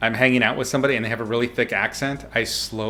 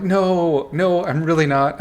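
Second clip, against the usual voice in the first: retold protest; 6 semitones higher, slower than usual. Retells protesting to accuser.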